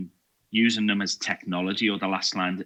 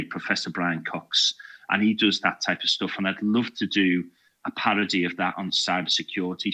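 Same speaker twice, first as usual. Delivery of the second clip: normal talking voice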